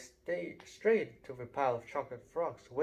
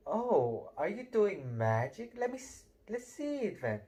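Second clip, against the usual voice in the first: put-on bossy girl; 6 semitones higher than usual. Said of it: "She had a bossy sort of voice".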